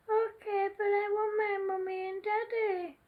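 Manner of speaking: put-on crying child. Baby answering kind dolphin, mild tearful whimper. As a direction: give in but still whimper for her parents. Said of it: "cried baby Ezra".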